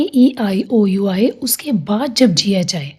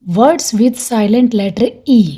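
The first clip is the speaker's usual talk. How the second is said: slow, clear heading; teacher reading a heading slowly; slow announced topic; much slower than usual. Shown as a demonstration. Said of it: "अब next है हमारा".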